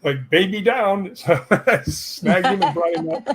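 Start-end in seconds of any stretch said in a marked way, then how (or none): 0.3-1.1 put-on baby talk. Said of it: "and he goes".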